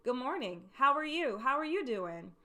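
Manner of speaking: friendly, lively hello to colleagues arriving; upbeat greeting. Shown as a demonstration. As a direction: greet the room with energy. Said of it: "When people come in the room, I say".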